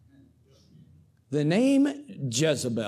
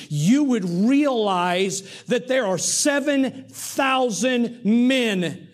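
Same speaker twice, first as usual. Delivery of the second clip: building emphasis; 5 semitones higher, slower than usual. Real, not acted. Preacher telling the congregation of the seven thousand, slow and building. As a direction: drive it home slowly.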